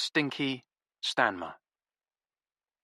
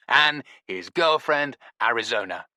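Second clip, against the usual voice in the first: mock slow intro; 4 dB louder than usual. Stinky's slow mocking intro.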